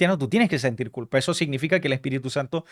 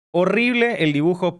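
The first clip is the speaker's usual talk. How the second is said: amused laugh; 3 semitones higher than usual. Real, not acted. Laughs at own bad drawing.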